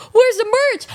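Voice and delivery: high, loud demanding; exasperated demand. Retold or imitated. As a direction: call it out, fed up. Demanding the missing merch.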